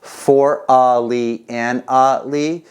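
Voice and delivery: four a li and a li counted slowly with weight on four; slow counting with the beat on four; counting sextuplets. Shown as a demonstration. Drum teacher counting the sextuplet aloud, slowly and evenly. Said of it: "I'm gonna count it as".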